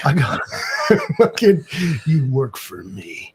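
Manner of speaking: slow, laughing through the words; laughing boast. Real, not acted. Rich man bragging to his hired help, laughing boast. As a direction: laugh while playing the rich boss.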